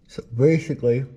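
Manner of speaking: talking around a flashlight in the mouth. Real, not acted. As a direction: speak with something held between the teeth. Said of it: "flashlight in my mouth".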